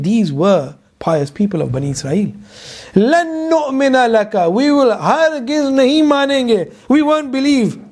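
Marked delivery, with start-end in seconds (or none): 2.9-7.8 a touch of mocking defiance; defiant refusal. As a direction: throw it back like a stubborn crowd. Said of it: "But they said".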